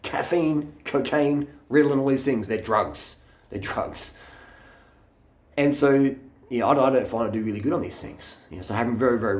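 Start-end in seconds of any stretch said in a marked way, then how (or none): 3.5-4.2 softer whispered repeat. Real, not acted. Ranting about caffeine to the camera, a whispered repeat. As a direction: drop to a whisper for emphasis. Repeats point, then hushed.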